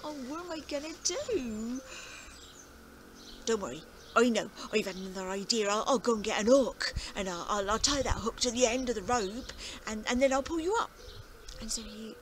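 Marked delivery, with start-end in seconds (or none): 0.0-10.9 put-on fretting old farmer. Farmer frets then plans.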